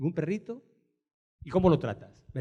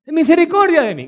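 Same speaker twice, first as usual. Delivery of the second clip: woman's plea; 9 semitones higher, 8 dB louder, faster than usual. Retold or imitated.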